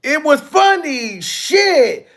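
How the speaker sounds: mocking the girl's line through a laugh; laughing imitation. Streamer echoes the girl's clip, laughing mimicry. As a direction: echo her words while laughing. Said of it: "Where did she get the y'all niggas from".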